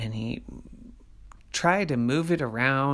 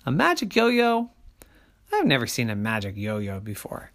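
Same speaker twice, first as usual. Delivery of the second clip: mother. Acted. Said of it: "And Mommy said".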